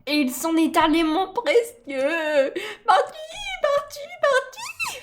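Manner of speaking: Gollum. Acted.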